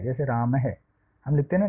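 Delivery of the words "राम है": "राम है" with the visarga sounded as an added "ha". Shown as a demonstration. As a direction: end "राम है" on an audible h-syllable. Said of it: "उसका उच्चारण तो होता है".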